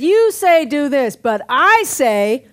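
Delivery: slow, weighty contrast of you and I; slow preacher's quote of Jesus; slow emphatic quote. Retold or imitated. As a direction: spell out the contrast slowly. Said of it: "He said".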